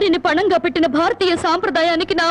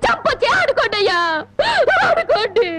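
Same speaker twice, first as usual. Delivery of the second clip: crying plea; 4 semitones higher than usual. Acted. Wife pleads with gambling husband.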